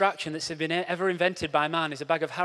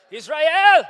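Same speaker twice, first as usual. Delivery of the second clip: much higher and louder call; shouted punchline; 9 semitones higher, 11 dB louder than usual. Acted. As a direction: bellow it like a flag waver.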